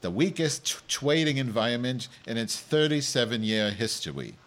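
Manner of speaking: news anchor with a comic speech impediment; lightly hammed-up newsreader; mock news read. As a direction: read the headlines with r and l softened to w. Reads news as Madge.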